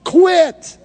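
high, loud rallying shout; preacher's rousing shout. Shown as a demonstration. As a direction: shout it to your neighbour. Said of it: "Look at somebody and say".

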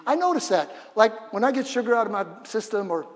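ordinary delivery

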